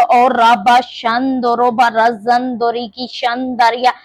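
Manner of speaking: speaking in tongues. Real, not acted. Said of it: "when you pray in the spirit of tongues".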